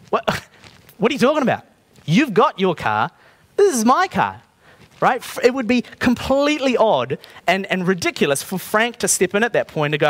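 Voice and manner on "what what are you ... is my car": baffled outrage. Retold or imitated. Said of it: "Brad's going".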